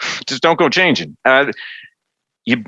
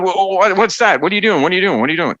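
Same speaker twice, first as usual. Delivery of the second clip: baffled execs; 7 semitones higher than usual. Retold or imitated. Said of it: "they were like".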